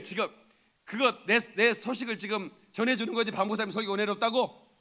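ordinary talk, nothing marked

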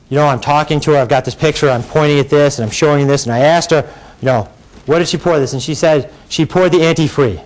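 mock-calm, even recital of testimony; Detective Spinelli. Lawyer quoting detective's testimony to jury, calm imitation. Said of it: "calm Detective Spinelli voice".

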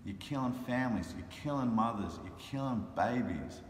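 retold impassioned reproach, stressed words punched; going hard. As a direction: lay into him, hammering each accusation. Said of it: "I went hard on this dude".

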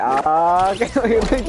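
imitating the cashier. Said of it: "why is her, like, voice going like".

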